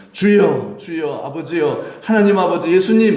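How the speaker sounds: impassioned prayer cry, climbing in pitch; fervent prayer cry. Shown as a demonstration. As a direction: cry out to God with mounting fervour. Demonstrates crying out in prayer.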